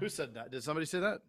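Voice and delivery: talking round a mouthful of food; eating while talking; mouth full. Real, not acted. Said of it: "eating out of a can right now".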